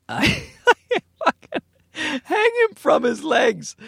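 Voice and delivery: real helpless laughter, high-pitched; high, giggly disbelief; cracking up. Real, not acted. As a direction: wheeze the words out while laughing. Cracking up repeating the threat.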